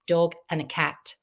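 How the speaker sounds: ordinary delivery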